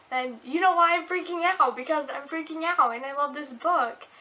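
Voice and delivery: real fangirl excitement; freaking out. Real, not acted. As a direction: burst out raving about a favorite book.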